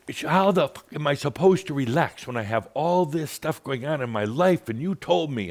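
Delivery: hammed-up furious caller; angry retort. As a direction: snap back in mock fury.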